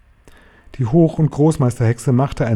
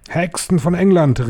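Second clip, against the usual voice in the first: high commanding witch call; 7 semitones higher than usual. A narrator's reading. Grand High Witch addressing the witches of England, high call. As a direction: call the assembly to order, pitched high. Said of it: "rief die Hoch- und Großmeisterhexe".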